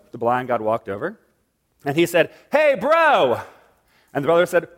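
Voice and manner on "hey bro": much higher, bright call of hey bro; casual high call; high cheerful greeting. Acted. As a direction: greet him like a buddy. Blind god greets brother.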